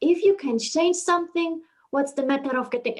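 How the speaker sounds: put-on lightly Indian-accented quote. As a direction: recite it with a hint of an Indian accent. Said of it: "I say it in the Indian accent".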